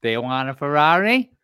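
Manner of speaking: slow, lightly sultry repeat of the ad; Anna Nicole Smith. Retold or imitated. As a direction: lazily drag the lines like the commercial. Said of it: "that's Anna Nicole".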